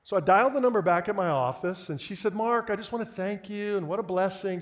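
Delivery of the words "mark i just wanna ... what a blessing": lightly imitated sweet Southern caller; mild Southern sweetness. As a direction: gush politely with a hint of Southern. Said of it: "just a super sweet Southern voice".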